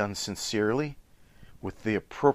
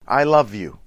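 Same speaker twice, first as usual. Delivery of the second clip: heartfelt declaration; 7 dB louder than usual. Shown as a demonstration. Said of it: "And then the last one".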